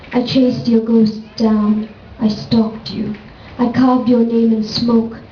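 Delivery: measured, deliberate poetry recital; poem reading. Acted. Poet reading a prose poem about Karna to an audience, measured recital. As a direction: read it as verse, pausing between images.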